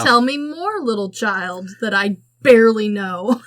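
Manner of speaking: exaggerated eager prompting, punched words; mock interest. Adult prodding an unknown child for secrets, mock interest. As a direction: egg the child on with feigned fascination.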